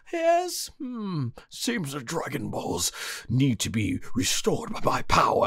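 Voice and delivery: ominous, hushed villain voice; sinister Neva. Retold or imitated. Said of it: "when he got more sinister".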